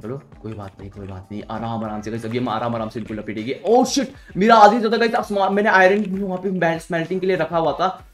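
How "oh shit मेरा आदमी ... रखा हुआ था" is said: high loud dismayed outburst; suddenly realising the loss. Real, not acted. Realises lost item.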